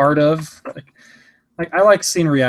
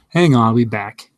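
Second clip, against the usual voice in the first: louder call to another room; yelling across the room; 3 semitones lower, 5 dB louder than usual. Real, not acted. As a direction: shout it over to someone away from you. Calls to someone elsewhere in the house.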